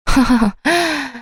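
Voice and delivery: a short, high disbelieving laugh. Retold or imitated. Wife laughing in disbelief at her husband's question, short and high. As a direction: laugh once in bitter disbelief. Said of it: "딱 웃음이 나더라고요".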